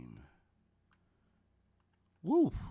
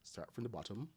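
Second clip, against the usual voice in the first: Caribbean accent; 4 semitones higher than usual. Real, not acted. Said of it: "My Caribbean accent is coming out there".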